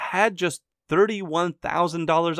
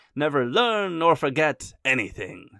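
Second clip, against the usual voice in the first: put-on French accent; 3 semitones lower than usual. Explaining history, quoting a saying about the French Bourbon monarchs, in a French accent. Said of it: "That's my French accent".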